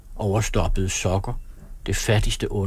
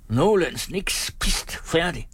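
higher, laughing echo of a curt order; a guest mockingly repeating the husband's order; 8 semitones higher, much slower than usual. A narrator's reading. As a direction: parrot the command and laugh at it. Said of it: "gentager Per og griner".

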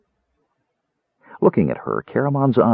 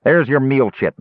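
snarling cook; 4 semitones higher than usual. Acted. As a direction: bark orders at the kender. Cook tosses meal chits.

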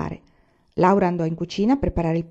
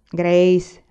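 father says the name louder, a stern stop; firm warning; 6 dB louder than usual. Acted. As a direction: cut her off with one firm word. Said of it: "disse papà". (richiamo deciso di papà, più forte)

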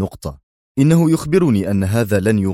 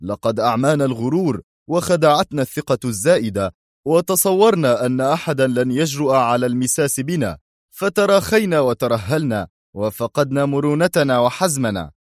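higher, sharp scolding; sharp shout; 4 semitones higher than usual. Acted. Yuri on his feet, sharply scolding their own failures. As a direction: leap up and lash out. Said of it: "صائحا في حدة".

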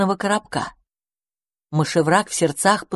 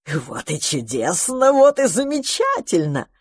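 delighted magpie voice. Acted.

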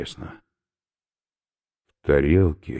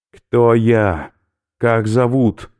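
loud, higher gruff voice; he is about to throw up; queasy skinhead; 8 semitones higher, 8 dB louder, much slower than usual. Acted. Oberführer warns professor he will vomit, loud and gruff.

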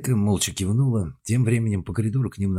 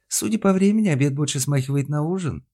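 wry remark; 8 semitones higher, 4 dB louder than usual. Acted. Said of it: "заметила она".

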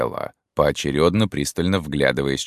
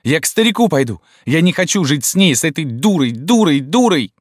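высокий громкий крик; выкрикни в отчаянии; 13 semitones higher, 6 dB louder than usual. A narrator's reading. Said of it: "кричала Рима". (Рима кричит на мать)

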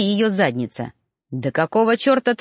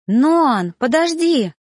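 called out high and louder; calling after; 7 semitones higher, 5 dB louder, much slower than usual. A narrator's reading. Girl calling after the fleeing teacher, raised voice. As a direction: shout after him to wait. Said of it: "донеслось мне вслед".

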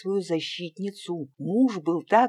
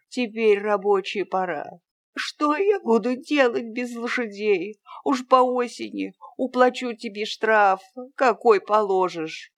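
anxious pleading peasant; 5 semitones higher, 4 dB louder than usual. A narrator's reading.

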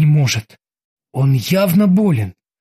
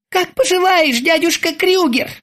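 much higher sweet taunting voice; mocking terminator; 12 semitones higher than usual. A narrator's reading. The terminator taunts Krueger in a sweet high voice. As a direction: coo it with menace. Cyborg woman speaks.

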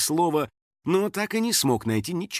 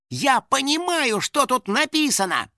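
thrilled discovery; 11 semitones higher than usual. A narrator's reading. House spirit able to read the old signs, thrilled. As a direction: exclaim high, savouring each word.

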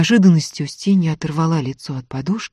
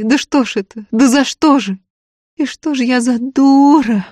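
high, loud tearful lament; сквозь рыдания; 8 semitones higher, 4 dB louder than usual. Acted. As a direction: wail it out, sobbing between phrases. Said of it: "Рыдания мешали Устинье говорить". (сквозь рыдания, высоко и громко)

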